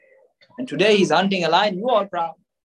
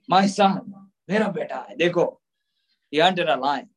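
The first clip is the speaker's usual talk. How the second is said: lower, sarcastic echo of the brag; mocking the boast; 4 semitones lower than usual. Mother mocking the father's boast about their son, low and sarcastic. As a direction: parrot the father's pride to deflate it. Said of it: "What you all proud about?".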